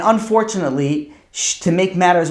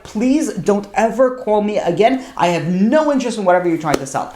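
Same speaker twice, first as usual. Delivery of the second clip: raised-pitch, emphatic brush-off, retold; firm rebuff; 4 semitones higher than usual. Daughter rejecting her father's student by phone, retold firmly. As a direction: act out cutting off an unwanted caller.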